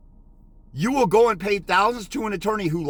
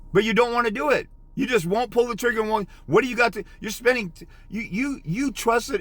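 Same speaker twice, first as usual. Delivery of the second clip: harsh scolding; 6 semitones higher than usual. Real, not acted. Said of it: "talking harshly to wake people up".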